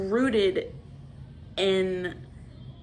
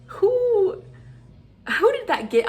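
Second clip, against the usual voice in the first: higher and louder, exasperated; exasperated outburst; 12 semitones higher, 7 dB louder than usual. Real, not acted. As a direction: demand it, fed up. Ranting about the scene.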